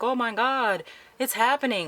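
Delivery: high-pitched imitated thrill; awed excitement. Stan sees flashing lights climbing the tower, high excitement.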